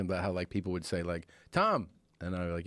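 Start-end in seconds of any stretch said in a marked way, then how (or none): 1.5-1.9 high, short call of a name; imitated calling out. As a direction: mimic a fan hailing someone. People calling his name in public.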